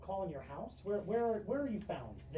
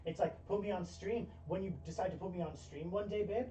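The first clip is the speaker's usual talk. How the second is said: put-on lower, softer, quick himbo boyfriend voice; a hint of a sheepish himbo pitching ideas; 5 semitones lower, 6 dB quieter than usual. He tells his girlfriend he's trying new characters, lower and softer.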